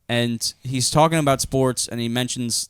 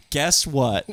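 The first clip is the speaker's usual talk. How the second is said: laughing guess what. Retold or imitated. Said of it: "you look at me and you go".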